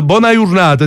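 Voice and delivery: greeting in broad Neapolitan dialect; Neapolitan accent. Shown as a demonstration. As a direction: say it the Neapolitan way, bwona jurnata. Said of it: "ho detto buona giornata in napoletano".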